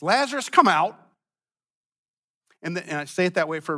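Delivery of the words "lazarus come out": a held-back loud call; restrained call. Shown as a demonstration. Jesus calling Lazarus from the tomb, restrained loud call. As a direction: call the dead man out, but hold some back. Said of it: "I'm not gonna be as loud as I think he was".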